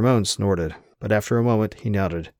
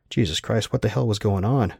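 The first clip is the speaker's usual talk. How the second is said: ordinary delivery, nothing marked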